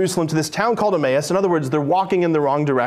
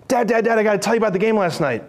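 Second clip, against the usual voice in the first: put-on excited kid; 3 semitones higher, faster than usual. Son rushing to dad.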